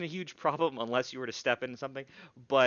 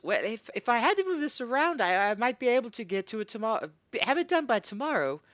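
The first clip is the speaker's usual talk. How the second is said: gnome smith voice; 11 semitones higher, 5 dB louder than usual. Acted. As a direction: boom it out high and proud. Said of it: "she goes".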